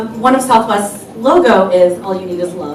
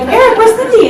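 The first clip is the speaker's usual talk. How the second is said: high, louder mock question; acted calling out; 12 semitones higher, 5 dB louder than usual. Friend asking husband where his wife is, mock calling out. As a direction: call it out well up in pitch.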